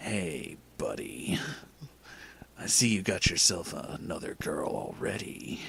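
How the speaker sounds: hushed, breathy, super evil voice. Narrating a story, the reader voices Luke walking up, in a super evil voice. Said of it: "I gave Luke the super evil voice".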